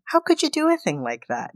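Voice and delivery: a malfunctioning android stuck on repeat; glitching robot. Retold or imitated. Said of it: "Bobby begins to glitch".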